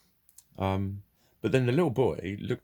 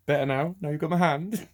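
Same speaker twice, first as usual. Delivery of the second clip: put-on higher, louder jokey comfort to a child; mock reassuring parent; 9 semitones higher, 5 dB louder than usual. Parent playing down a child's upset, jokey and lightly high. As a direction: tease the kid gently, light and high. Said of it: "just go".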